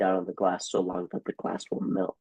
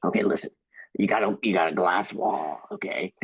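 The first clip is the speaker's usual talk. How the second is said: put-on drunk bar guy. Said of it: "crazy drunk guy that you meet at the bar who's like".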